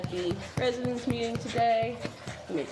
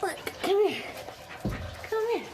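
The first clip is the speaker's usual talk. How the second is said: high calling; 9 semitones higher, much slower than usual. Real, not acted. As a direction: call her high and sweet. Calling the dog.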